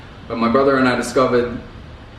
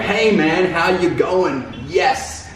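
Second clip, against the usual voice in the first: mock cheery Westerner; 5 semitones higher than usual. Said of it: "but, like".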